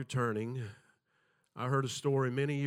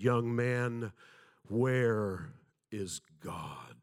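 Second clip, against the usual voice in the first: a slow, booming pastor's voice, drawn out; deep resonant voice; much slower than usual. Retold or imitated. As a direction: loom over the boy like an imposing pastor. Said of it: "in a very deep, resonant voice".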